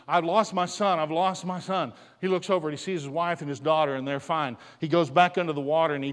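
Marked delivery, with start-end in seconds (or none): 0.1-1.9 higher and louder cry of loss; retold scream. Father in the sea screams for his son, mock scream. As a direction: call out for the lost son. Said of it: "surfaces again and screams".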